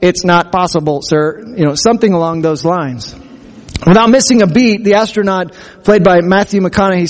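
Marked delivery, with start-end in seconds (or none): 0.0-1.4 flat mechanical robot voice. Retold or imitated. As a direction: deliver it like a calm robot. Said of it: "he says in his robot voice".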